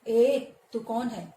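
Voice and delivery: loud, slow demanding call; demon's challenge. Acted. Teacher voicing Bakasur challenging the stranger.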